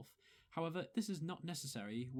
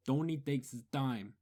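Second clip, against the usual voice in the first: louder Bronx accent with heavy lip movement; punchy Bronx accent demo; 6 dB louder than usual. Shown as a demonstration. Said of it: "I would actually say".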